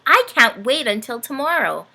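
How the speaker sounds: can barely wait; happy. Acted. Dorothy at bedtime, eager. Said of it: "Dorothy happily".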